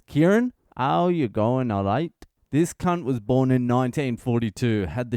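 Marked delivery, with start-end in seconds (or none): 0.0-2.1 lightly voiced Cockney grandfather greeting at the gate; Cockney accent. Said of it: "in his Cockney accent says".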